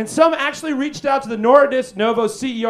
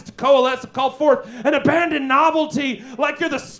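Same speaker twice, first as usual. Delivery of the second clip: raving doom prophet; 4 semitones higher than usual. Acted. Hammy mad prophet monologue.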